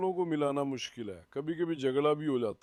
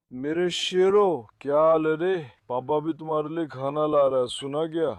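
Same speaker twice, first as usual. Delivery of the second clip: loud pet talk; 7 dB louder than usual. Real, not acted. Greeting dogs with food.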